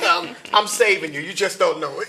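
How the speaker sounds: loud, laughing cut-in; amused, high-spirited teasing; laughing interruption. Real, not acted. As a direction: jump in loudly through laughter. Host laughingly cuts guest off.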